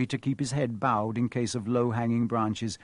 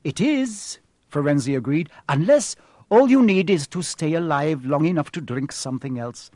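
higher, grave creature voice; solemn centaur; 3 semitones higher, 5 dB louder than usual. Acted. Centaur explains to the boy why unicorn blood is cursed, grave and higher. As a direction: warn of a terrible price.

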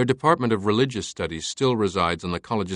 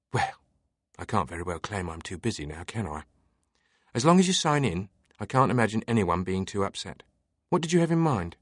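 lightly voiced amused librarian.

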